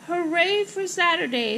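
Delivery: high, loud hooray; cheering. Acted. Mother and daughter celebrate arriving, cheer. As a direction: cheer it out, voice lifted. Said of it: "they cheered".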